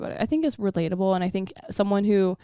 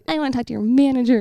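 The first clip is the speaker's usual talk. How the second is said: entitled white woman; 5 semitones higher, faster than usual. Retold or imitated. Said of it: "the whitest woman thing you possibly can do".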